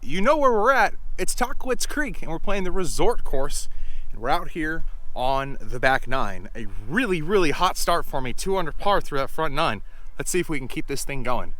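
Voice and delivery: loud, bright, high-energy host greeting; upbeat YouTuber intro. Acted. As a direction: pump up the viewers at the start. Channel intro to camera.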